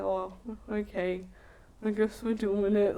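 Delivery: soft, hesitant imitation of awkward consent; reluctant agreement. Teller mimics his hesitant reply to sex, reluctant. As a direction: go quiet and draw out the okay, unsure.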